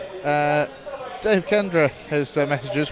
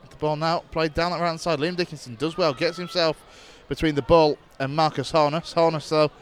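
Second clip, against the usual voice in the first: steady radio match commentary; live play-by-play. Acted. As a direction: call the match as it unfolds.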